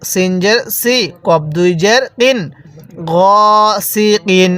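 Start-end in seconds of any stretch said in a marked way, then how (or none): 3.1-4.5 long held "গ", then "সি, কিন"; drawn-out vowel. Shown as a demonstration. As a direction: stretch "গ" before "সি, কিন". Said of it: "এরকমভাবে শিখব".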